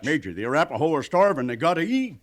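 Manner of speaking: high, pressing plea for the starving; desperate plea. Acted. Pleading with the major.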